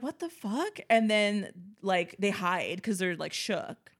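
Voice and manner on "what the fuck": high mock alarm.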